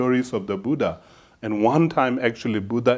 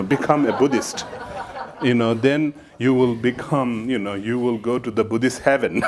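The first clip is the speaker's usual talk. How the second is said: laughing. Real, not acted. Mocking preacher, laughing through it.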